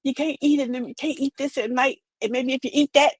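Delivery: nagging advice-giver. Retold or imitated. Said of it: "y'all going".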